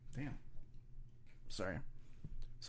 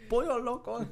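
high playful mocking voice; mock sing-song; 13 semitones higher than usual. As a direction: toss it off high and teasing. Mocking joke on the name.

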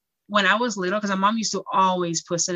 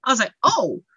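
laughing; 7 semitones higher, 5 dB louder than usual. Real, not acted. Laughing while retelling.

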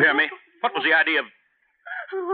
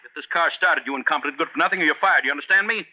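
raised, pitched-up scolding; angry tirade; 5 semitones higher than usual. Acted. Boss threatens to fire his chauffeur on a lonely road, angry and pitched up. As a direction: tear into the driver.

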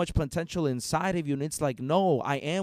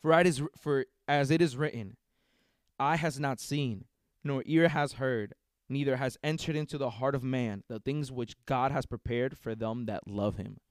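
scripture reading. Real, not acted. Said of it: "The word of God says this".

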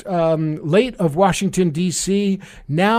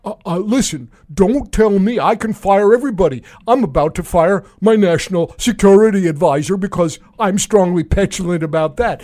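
bad Trump impression. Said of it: "a very bad impression of the president".

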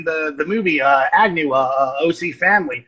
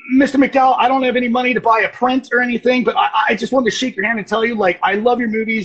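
nervous fan; 5 semitones higher, faster than usual. Retold or imitated. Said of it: "And I was like".

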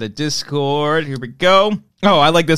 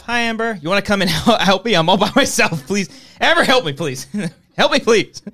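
mock pleading; 4 semitones higher than usual. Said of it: "I hear them fucking giggling out there".

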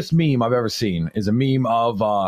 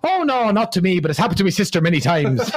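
hammed-up Irish punchline, starting high; joke Irishman; 4 semitones higher than usual. Comic as Paddy giving the punchline, lightly put-on Irish voice. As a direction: deliver it as an innocent mock Irishman. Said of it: "And Paddy says".

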